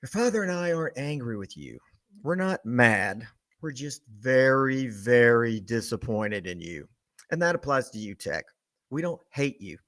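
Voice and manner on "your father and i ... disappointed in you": disappointed mom. Retold or imitated. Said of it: "a little speech that she used on me".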